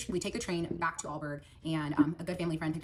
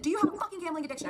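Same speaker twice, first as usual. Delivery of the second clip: retold scream; 12 semitones higher, 4 dB louder, faster than usual. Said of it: "I remember I screamed it in his face".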